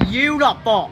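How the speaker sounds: loud, high delighted shout; excited cheer. Real, not acted. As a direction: call it out in awe. Cheering fireworks.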